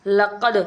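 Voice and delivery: لقد with the final d bounced; echoing qalqala. Shown as a demonstration. Teacher demonstrating how qalqala is done, bouncing d in لقد. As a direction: release the d of لقد with a short echo. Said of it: "قلقلہ اس طرح سے کیا جاتا ہے".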